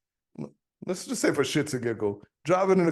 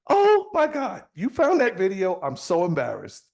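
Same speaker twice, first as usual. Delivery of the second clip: mock embarrassed friend; 4 semitones higher than usual. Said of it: "friend caught out in scene".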